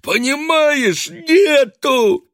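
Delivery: high, loud, desperate yelling; desperate shout. A narrator's reading. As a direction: keep screaming in despair. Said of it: "страшным голосом прокричал". (отчаянный крик)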